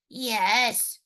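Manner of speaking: wolf's squeak. Acted. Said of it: "squeaked the wolf".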